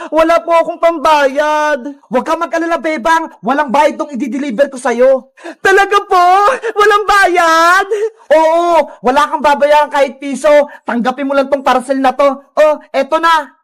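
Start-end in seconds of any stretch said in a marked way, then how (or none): 2.1-5.4 lightly lowered courier voice; a slightly deeper rider character; delivery rider. Acted. Rider telling Bebang there is nothing to pay, lightly lowered voice. 8.3-13.5 lower-pitched courier voice; delivery rider. Acted. Rider handing Bebang the free parcel, lower character voice.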